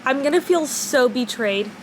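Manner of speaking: talking around a retainer; speech thick from a retainer in the mouth; wearing a retainer. Real, not acted. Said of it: "I have my retainer in".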